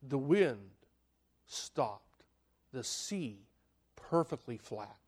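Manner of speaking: quiet awe after the storm; hushed narration. Acted. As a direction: let the calm settle in your voice. Sudden calm after the shout.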